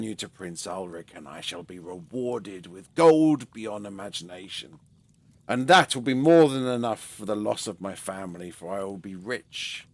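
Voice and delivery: low, hushed voice of a scheming trader. Acted. The trader tempts her with the poison, low and hushed. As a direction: murmur the plot low and soft, savouring it. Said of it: "he looks at her and he says".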